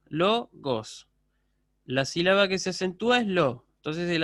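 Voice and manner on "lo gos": "lo, gos" with a break between syllables; teacher counting out "lo", then "gos". Shown as a demonstration. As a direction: split logos into "lo" and "gos". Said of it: "una palabra que tiene dos sílabas".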